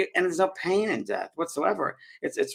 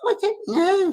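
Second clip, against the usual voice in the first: high-pitched, louder Scottish impression; Scottish accent; 5 dB louder than usual. Scottish lady answers researchers about her death, high Scottish accent. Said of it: "I'm trying to my Scottish accent".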